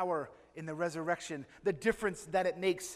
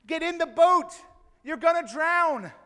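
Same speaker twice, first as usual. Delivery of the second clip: higher, louder shout across the water; urgent shout; 7 semitones higher, 7 dB louder than usual. Acted. Boatman shouting to the stranded man, urgent warning. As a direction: call out to save him before he drowns.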